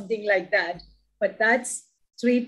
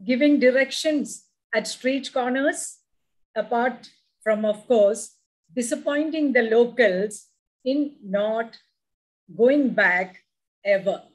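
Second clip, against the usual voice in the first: poem recitation. Acted. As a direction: savour each line of the poem. Poem reading.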